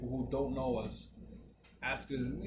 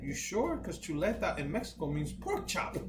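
imitating the airport worker, pitched higher; a retold worker's voice, higher; Mexican worker; 4 semitones higher than usual. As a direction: play the amused worker checking. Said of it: "He's like".

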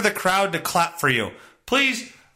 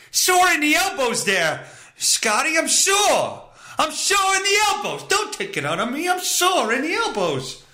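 comic whiny yell; 6 semitones higher than usual. Acted. Comic complaint yelled at Scotty.

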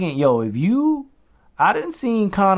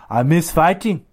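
acted-out quote, pitched up; imagined comeback plea; 4 semitones higher than usual. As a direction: whine it a little higher, mimicking a retiree. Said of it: "two years later be like".

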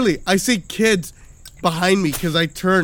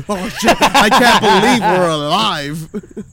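louder, slow relieved gasp; shaken dad; 2 semitones higher, 7 dB louder, slower than usual. Retold or imitated. Sweating dad stepping off the kids' ride, slow shaken relief. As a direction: breathe it out like you barely survived.

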